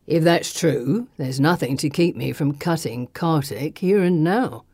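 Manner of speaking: menacing thug. A narrator's reading. Thug with a knife threatening the companion, menacing. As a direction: threaten with relish, unhurried.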